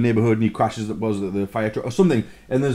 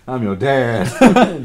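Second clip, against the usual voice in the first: drawn-out giggling line; slow laughing mock dad; 5 dB louder, much slower than usual. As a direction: say it slowly through laughter. Acted joke dialogue.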